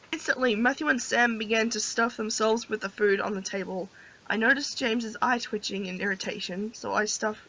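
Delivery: soft, low-key storybook reading; story narration. A narrator's reading. Player reads the heroine's thoughts, soft story narration. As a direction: read her inner thoughts quietly and evenly.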